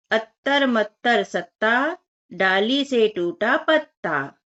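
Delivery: slow, sing-song rhyme reading; rhyme recitation. Shown as a demonstration. Teacher reciting a fun rhyme to children, slow and sing-song. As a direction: recite the rhyme slowly so the children can follow. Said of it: "बहुत ही मजा आता है बोलने में".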